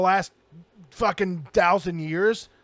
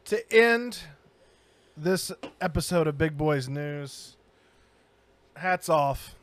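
slow, grave mock tribute; mock solemn. Host announces a discontinued ice cream's passing, mock solemn. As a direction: deliver a halting mock obituary.

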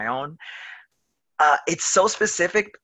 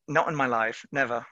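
put-on British accent; 3 semitones lower, 5 dB quieter than usual. Actor keeps up the British accent.

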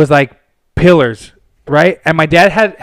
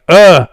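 loud mock grunt; retold dismissive grunt; 6 dB louder than usual. Dude brushes off the request to clean up, mock grunt. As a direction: grunt back like he can't be bothered.

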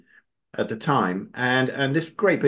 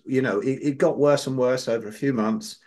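normal talking voice

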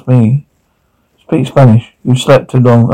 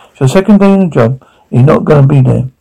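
angry; faster than usual. Acted. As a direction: fire it off in disbelief. Cop confronting a colleague.

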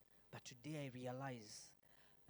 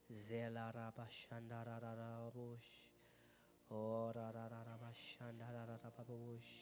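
fervent tongues-speaking over worship. Real, not acted. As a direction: pour out unknown syllables in prayer. Glossolalia during worship.

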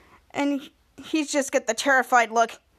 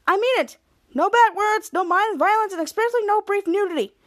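stern parent voice; 7 semitones higher than usual. Retold or imitated. Strict Captain Man laying down rules.

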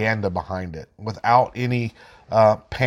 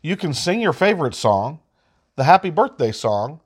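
put-on lightly higher virus voice for kids; cute germ voice; 3 semitones higher than usual. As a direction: play a friendly virus talking to little kids. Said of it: "the first graphic is".

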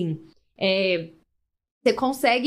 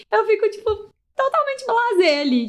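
mock blasé; 9 semitones higher than usual. Real, not acted.

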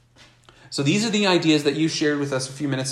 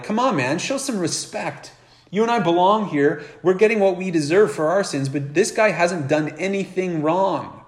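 shouting down; 5 semitones higher than usual. Retold or imitated. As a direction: snap back at the mocker and defend Jesus. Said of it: "to shout down the other criminal".

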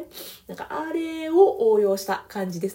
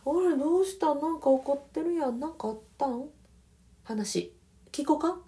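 soft gentle reply; 6 semitones higher than usual. Shown as a demonstration. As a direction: catch the anger softly and toss it back. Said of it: "柔らかくもう、ふわーっと".

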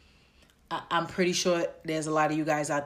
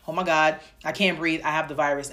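mock panic; faster than usual. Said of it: "Now I'm breathing fast and I'm like".

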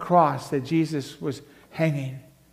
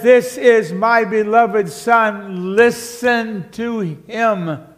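slow, majestic and louder; voice of God the Father; 5 semitones higher, 5 dB louder, much slower than usual. Acted. Preacher voicing the Father from the cloud, slow and majestic. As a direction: pronounce it slowly like a divine decree. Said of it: "When he says".

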